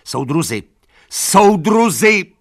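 desperate high call; shouting. A narrator's reading. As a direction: cry out to the horses. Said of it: "křičela".

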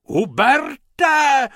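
high, loud shriek of a name; a frantic woman calling out; shrieking lady. Acted. Lady shrieks for Hubert as she runs. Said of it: "ječela".

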